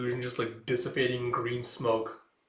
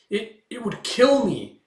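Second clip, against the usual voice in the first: much higher, slow, strained; fearful cry; 10 semitones higher, 8 dB louder, slower than usual. Retold or imitated. Witch begging the group, afraid. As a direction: plead that it will kill you.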